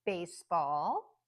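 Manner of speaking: baseball slowly, BASE stronger, ball still clear; primary stress on base in baseball, secondary on ball; careful list-reading of baseball; compound noun stress. Shown as a demonstration. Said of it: "extra stress on the first word".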